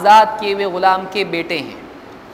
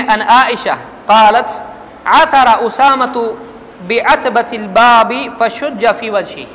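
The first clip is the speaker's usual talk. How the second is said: slow, louder Arabic hadith reading; hadith recitation; 4 dB louder, slower than usual. Acted. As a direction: intone the Arabic text deliberately. Reads Arabic hadith text. (حدیث کی آہستہ بلند قرأت)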